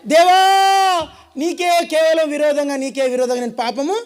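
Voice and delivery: slow, drawn-out cry to God fading to nothing; fearful plea. Acted. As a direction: beg God in terror, then sink to a whisper. David cries out in fear. (భయంతో దేవుని వేడుకోలు)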